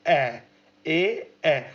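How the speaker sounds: ए sounded low, repeated; vowel ए demo. Shown as a demonstration. Teacher demonstrating the vowel ए for students. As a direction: repeat ए slowly several times. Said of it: "बोल के देखेंगे ए".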